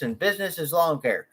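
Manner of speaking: ordinary talk, nothing marked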